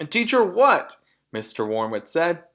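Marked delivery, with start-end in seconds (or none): 0.1-1.0 high, loud gruff "teach her what"; loud, scornful dad voice; incredulous father. A narrator's reading. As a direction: bark it back in disbelief. Mr Wormwood voiced, sharp.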